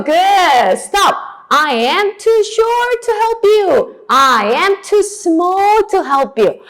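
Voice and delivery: high, loud classroom chanting; lively drill call. Shown as a demonstration. Teacher leads animal chant drill.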